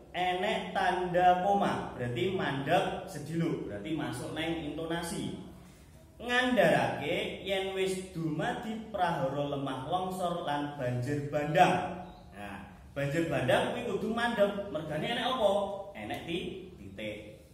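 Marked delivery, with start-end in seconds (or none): 6.2-12.1 measured news-text reading; model reading aloud. Shown as a demonstration. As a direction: read out evenly, stop at the full stop. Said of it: "Saiki nyontokne, eh, carane maca".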